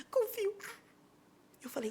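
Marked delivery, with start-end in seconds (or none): 0.1-0.5 tearful bride. Retold or imitated. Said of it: "Você confia em mim?".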